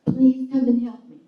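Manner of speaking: high, loud, frantic plea for help; desperate high-pitched alarm; retold panicked cry. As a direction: call out to him in a panic, reliving it. Panicked call for husband's help.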